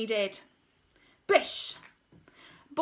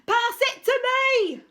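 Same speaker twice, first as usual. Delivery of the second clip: high, loud, slow command; loud slow demand; ordering; 13 semitones higher, 8 dB louder, slower than usual. A narrator's reading. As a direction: bellow the order. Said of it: "he ordered".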